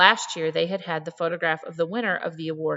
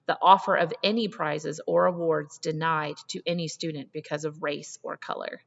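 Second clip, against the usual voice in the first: strong and resolute. Acted. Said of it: "her voice an electric flow of strength".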